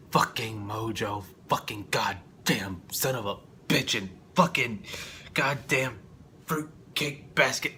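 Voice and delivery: slow, drawn-out cursing tirade; half-comic angry rant; mock rant. Real, not acted. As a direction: spit each insult out. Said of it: "ranting against Mojo".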